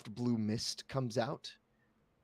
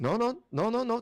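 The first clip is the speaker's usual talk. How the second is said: high, loud rushed no's; hasty reassurance; 10 semitones higher, 6 dB louder than usual. Acted. Wizard hurriedly soothing the frightened girl, high-pitched. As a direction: hurry to calm her down.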